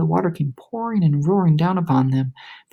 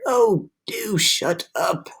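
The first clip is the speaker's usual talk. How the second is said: irritated; 4 semitones higher, much slower than usual. A narrator's reading. Grasshopper annoyed.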